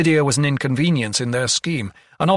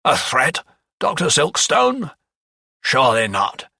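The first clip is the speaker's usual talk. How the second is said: mock surprise; 3 semitones higher, 4 dB louder than usual. A narrator's reading. Lawyer answers the doctor's warning, with mock surprise. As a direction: feign disbelief at being threatened.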